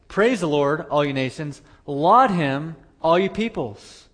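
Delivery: loud, emphatic scripture reading. Acted. Preacher voicing God's call to all nations, emphatic. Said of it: "this is emphatic in Hebrew".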